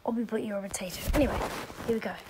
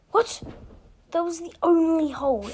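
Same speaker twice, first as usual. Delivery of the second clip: higher, louder disbelieving cry; exasperated outburst; 6 semitones higher, 9 dB louder than usual. Real, not acted. Player fails the only gap, cries out louder and higher. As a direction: blurt it out in disbelief. Fails after a close jump.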